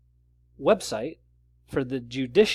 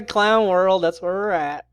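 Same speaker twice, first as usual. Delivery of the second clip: silly clown; 4 semitones higher, 6 dB louder than usual. Pretend. Clown world catchphrase.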